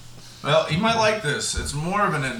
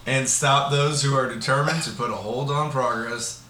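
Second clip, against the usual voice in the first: Joe Biden voice. Acted. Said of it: "I was trying to sound like Joe Biden".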